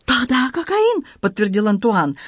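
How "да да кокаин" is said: put-on high, slow French-accented broken Russian; excited Frenchman in broken Russian, high; Antoine voice. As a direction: play the flustered Frenchman, pitched high. Antoine confirming.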